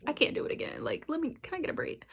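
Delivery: whispered, begging for a break; tired plea. Retold or imitated. Vlogger telling viewers she is sick of dark shows, whispered plea. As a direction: sigh it out, worn down and pleading. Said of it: "and I'm like".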